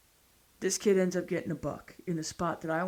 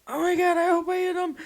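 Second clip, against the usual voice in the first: high, loud, jittery hope; breathless high-pitched excitement; excited squeal; 13 semitones higher, 6 dB louder than usual. Retold or imitated. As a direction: squeal it with buck fever. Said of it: "I'm like a country singer in the stand".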